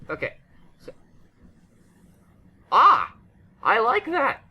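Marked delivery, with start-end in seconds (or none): 2.7-4.4 delighted. Real, not acted. Delighted at new item.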